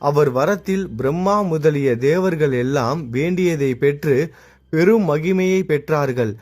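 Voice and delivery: slow, measured recital of a holy text; unhurried devotional narration; solemn scripture reading. A narrator's reading. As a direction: read it like a temple storyteller. Reads scripture passage slowly.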